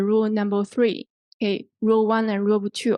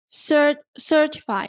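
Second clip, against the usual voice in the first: cert- said higher and punched, then certify; stress on cert; 4 semitones higher than usual. Shown as a demonstration. Teacher stressing cert in certify for students. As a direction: hit cert hard in certify. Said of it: "here we emphasize set, the first syllable".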